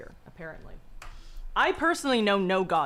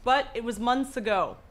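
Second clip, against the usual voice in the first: dramatic story reading. A narrator's reading. Reads Lovecraft story aloud.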